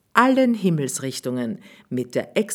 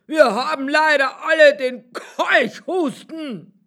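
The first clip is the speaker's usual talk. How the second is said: much higher, laughing fake-sick call; high laughing excuse through the window; calling out a fib; 11 semitones higher, 4 dB louder than usual. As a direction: call out the lie with a giggle.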